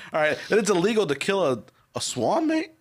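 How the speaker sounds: mock British disbelief, on the edge of laughing; bad English accent. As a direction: overdo an incredulous British "mate". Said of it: "it's so bad".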